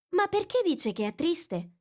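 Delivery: put-on young girl's voice pitched high, eager; a curious girl asking for a story; Alice. A narrator's reading. Curious girl reminding the mouse of his promise, lightly voiced.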